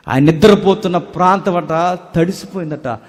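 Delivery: ordinary delivery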